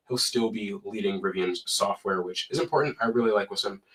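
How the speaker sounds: talking through a stuffy nose; blocked nose from a cold. Real, not acted. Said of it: "sorry if I sound a little stuffy".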